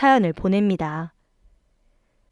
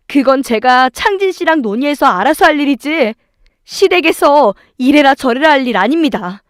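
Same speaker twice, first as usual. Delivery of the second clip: raised, emphatic protest; firm retort; 4 semitones higher, 4 dB louder than usual. Acted. Wife defending herself to in-laws, firm retort. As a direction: stand your ground, voice lifted.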